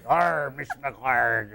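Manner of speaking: slow drawn-out pirate growl; Klingon growl. Shown as a demonstration. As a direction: stretch out the Klingon growl slowly. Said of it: "they sound like the pirate alphabet".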